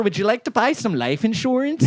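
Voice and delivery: a pretend Scottish telemarketer pitching insurance; Scottish accent. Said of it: "like, a Scottish guy".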